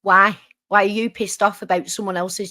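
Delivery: loud, demanding question; forceful repeated heckle; challenging. Real, not acted. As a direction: cut in loudly and demand an answer. Challenges the ranting woman.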